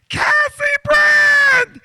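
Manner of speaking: high, slow, drawn-out call; mock teacher's excited greeting. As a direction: sing out her name delightedly. Teacher calling out in church.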